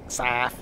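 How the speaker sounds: Saff for South, long open A; put-on local pronunciation. Shown as a demonstration. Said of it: "you gotta pronounce it like that".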